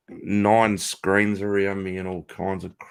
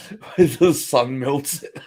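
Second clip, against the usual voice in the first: laughing whisper; 4 semitones higher, 4 dB louder than usual. Real, not acted. Joke through laughter.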